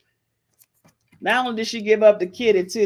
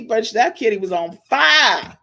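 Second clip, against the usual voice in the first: shouting; 4 dB louder than usual. Real, not acted. Loud comic exclaim.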